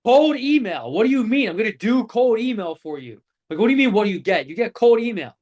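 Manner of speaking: mock exasperated rep, stressing cold email; defensive. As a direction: bluster back at a doubting client. Young self defending vague offer.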